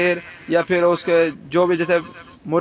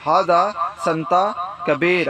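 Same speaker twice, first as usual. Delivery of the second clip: slow teaching demo; slower than usual. Shown as a demonstration. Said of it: "تو اس کو عربی زبان میں بولیں گے".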